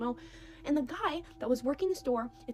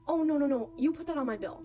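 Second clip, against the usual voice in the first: loud, raised mock insistence; insistent objection; 3 semitones higher, 4 dB louder than usual. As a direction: wave them off, insisting on paying. Man insists on paying.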